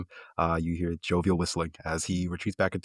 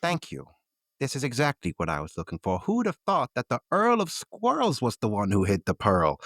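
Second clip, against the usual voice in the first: put-on old shopkeeper voice; 6 semitones higher than usual. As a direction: play Mister Creed as a friendly old seed seller. GM voices Creed again.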